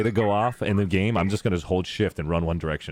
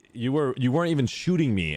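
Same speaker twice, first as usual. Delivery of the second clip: lightly voiced sulky gamer, a touch higher; quoting a salty player; 4 semitones higher than usual. Quoting a sore loser to friends, a mild mock whine. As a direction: mimic the annoyed player mildly. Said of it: "I saw someone said, like".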